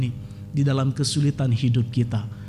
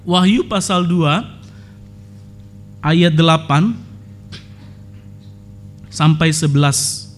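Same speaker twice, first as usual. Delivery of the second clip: slow announced reference; 2 semitones higher than usual. Shown as a demonstration.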